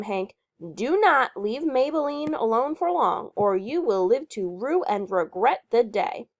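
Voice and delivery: a hint of a stern, bossy woman warning; bossy Patty Lamarck. Patty warning Leroy not to leave the horse, mildly stern. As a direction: warn him sternly, lightly voiced.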